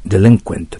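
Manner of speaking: "デリンクエント" stressed on "リン"; corrected word stress. Shown as a demonstration. Teacher correcting herself or himself, "デリンクエント" with stress on "リン". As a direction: put the accent on "リン" in "デリンクエント". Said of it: "訂正しておきます".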